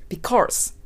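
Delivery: "because" with an unwanted R before the final s; weak-tongue R slip. Shown as a demonstration. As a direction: let the tongue curl up in "because", adding an R. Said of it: "筋肉が足りないからです".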